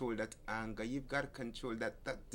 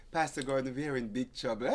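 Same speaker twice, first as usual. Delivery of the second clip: laughing quote; 4 dB louder than usual. Retold or imitated. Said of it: "both of them burst out laughing".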